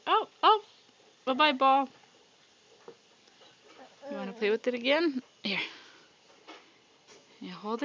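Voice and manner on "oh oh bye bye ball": high, louder mock alarm; playful alarm. Real, not acted. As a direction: squeal as the ball rolls away. Baby drops ball, parent reacts.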